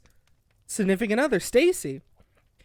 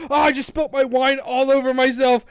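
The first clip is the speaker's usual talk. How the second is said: louder exclamation of dismay; real dismay; 3 semitones higher, 6 dB louder than usual. Real, not acted. Host who just spilt wine on themselves, dismayed. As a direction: break off, appalled at the spill.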